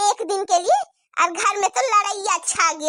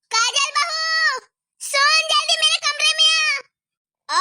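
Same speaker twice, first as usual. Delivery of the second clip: angry shout; 6 semitones higher, slower than usual. Acted. Grandmother summons daughter-in-law.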